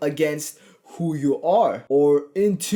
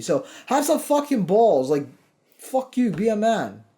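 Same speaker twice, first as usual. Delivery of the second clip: raised, higher-pitched rant, swearing hard; fired-up rant; 4 semitones higher than usual. Real, not acted. Coach ranting at viewers who fear their friends' teasing, fired up. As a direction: rip into the excuse-makers. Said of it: "I kinda went off a bit there".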